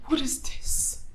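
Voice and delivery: hushed, low disbelief; quiet reproach. Acted. Wife confronting husband who didn't show up, quiet reproach.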